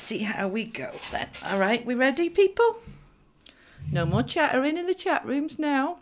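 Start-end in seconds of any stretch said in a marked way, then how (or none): 1.4-6.0 high, loud call to the group; rally everyone before starting; loud, bright call to order. Real, not acted. Calling the online audience to order.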